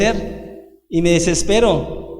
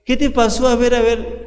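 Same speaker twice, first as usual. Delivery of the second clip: higher, doting parent fussing; mock coddling; 4 semitones higher than usual. Parent pampering a crying child, higher mock doting. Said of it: "Si uno lo chiquea".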